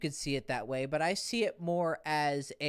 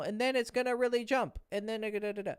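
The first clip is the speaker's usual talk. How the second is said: jumpy intonation demo; 6 semitones higher, faster than usual. Shown as a demonstration. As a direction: pitch leaps up on random words, same timing. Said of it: "so I'll show you how to do it wrong".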